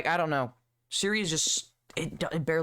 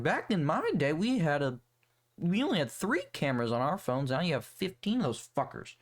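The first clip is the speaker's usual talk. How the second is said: put-on future old-timer; 3 semitones higher than usual. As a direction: play your older self lightly bragging. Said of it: "I'll just be like".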